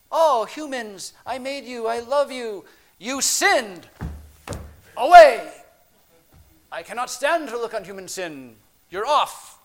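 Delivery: loud, high, melodramatic divine lament; theatrical God banishing sinners, bursting loud on the dismissal; mock wrathful God. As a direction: proclaim it in hammed-up divine rejection. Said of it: "growing up in a neo-Calvinist tradition".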